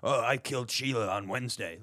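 mock murderer blurting it out; lightly voiced caught killer; recorded killer confession. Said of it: "They're like".

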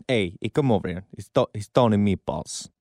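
a slightly deepened mobster put-on; hint of a low mafia heavy; Tony Meatballs. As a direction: lightly play an Italian-American mob boss. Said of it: "I have to go a little deeper".

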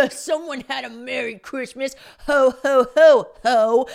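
loud teasing Santa ho ho; imagined men mocking her purchase, loudly. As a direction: jeer like smug onlookers.

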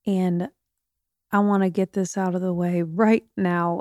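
talking with a numb jaw; words slurred from jaw surgery. Real, not acted. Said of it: "do I sound funny?".

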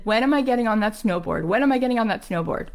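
acted determined questioning; stubborn insistence. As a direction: repeat it fast, refusing to budge. Patient stubbornly repeating her question.

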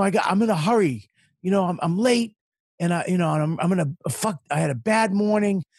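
retold road rage rant. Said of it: "I just snapped".

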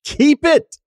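high, thin voice for her; high girlfriend voice. Retold or imitated. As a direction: squeak it out as the woman. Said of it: "She says".

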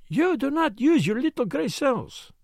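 dry, pointed rebuke. A narrator's reading. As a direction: say it dryly, like a tutor. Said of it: "he remarked dryly".

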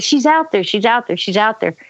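mild retold panic, sinking back down; mock scream. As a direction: imitate a scared child repeating a warning. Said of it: "I'm screaming through the pillows".

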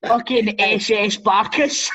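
slow, laughing through it; chuckling mock German. Real, not acted. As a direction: giggle out the joke name. Laughing joke on the name.

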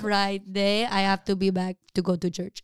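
imitated Filipino mom; Filipino accent. Friend mimics mom bound for church, Filipino accent. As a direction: put on mom's Filipino English. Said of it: "Molly's turning into a Filipino".

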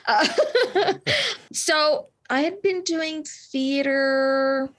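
slow, giggling through the words; laughing. Real, not acted. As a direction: laugh off the compliment. Guest laughs off the praise.

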